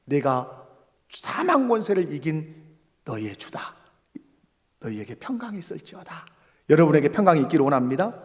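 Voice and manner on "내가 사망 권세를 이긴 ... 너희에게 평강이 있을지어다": soft, hushed voice of Jesus; gently reassuring, dropping softer; tender blessing. Acted. Jesus gently blessing frightened disciples.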